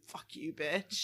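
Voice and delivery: low, soft and slow; a dog's private thought, muttered low and slow. Retold or imitated. Owner voicing what her sweet dog thinks, low slow aside. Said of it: "looks back and immediately thinks".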